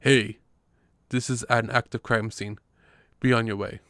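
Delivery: put-on loud yelling cop in a thick Brooklyn accent; yelling loudly in a heavy Brooklyn accent. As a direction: bark it out like a Brooklyn street cop, full volume. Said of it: "yells in a thick Brooklyn accent".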